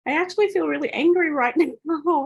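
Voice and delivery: high, loud, laughing through the words; laughing admission. Retold or imitated. Surprised at herself, laughing it out. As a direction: giggle out the confession.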